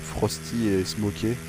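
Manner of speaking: English names said slowly in a heavy French accent. Shown as a demonstration. Gamer reads out the dead players' names, slow heavy French accent. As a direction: slowly read out Frosty et Smokey with a thick French accent. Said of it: "Avec ce magnifique accent français".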